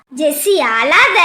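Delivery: low, slow and gentle; gentle comfort. Acted. Older man consoling crying Jessie, low and slow. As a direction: soothe her slowly, low.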